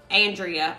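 Andrea said the Southern way, AN-dree-uh; Southern pronunciation. Real, not acted. Greeting a viewer, Andrea as AN-dree-uh in a Southern way. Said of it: "that's how I say it".

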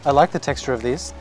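muffled behind a respirator; speaking with mouth covered; through a face mask. Real, not acted. Seen 3: White respirator mask covers his mouth and nose while speaking in store.

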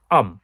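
"আম" as one short syllable; contracted I am. Shown as a demonstration. Teacher showing conversational English, contracted "আম". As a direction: say "আম", I am run into one word. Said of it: "I am কে contraction ব্যবহার করে আমরা বলছি".

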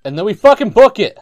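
loud, high outburst; sudden shout. Real, not acted. Player abandoning whisper gag mid-game, shouting. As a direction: yell it, breaking the hush.

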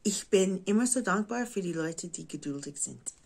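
American speaking German; German with an American accent; English accent in German. Real, not acted. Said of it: "mein Deutsch ist nicht perfekt".

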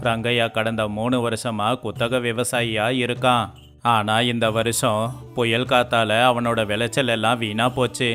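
usual speaking voice

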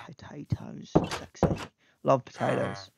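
breathy hushed tease; soft mock-seductive purr; mock sultry. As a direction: seduce the potatoes jokingly. Mock-sultry about potatoes.

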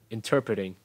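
Interpreting with stress on the second syllable, "TER". Shown as a demonstration. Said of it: "Nhấn vào cái turn này". (Interpreting, nhấn vào âm "ter")

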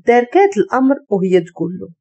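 ordinary delivery

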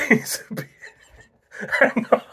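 giving up mid-word to laugh. Real, not acted. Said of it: "can't stop laughing".

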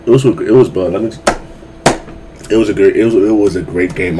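tired stutter, tripping over words. Real, not acted. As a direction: stumble through it, sleepy stutter. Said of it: "I'm kinda stuttering 'cause I'm kinda tired".

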